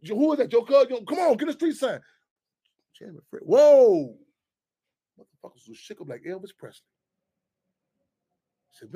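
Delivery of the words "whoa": mock amazed whoa.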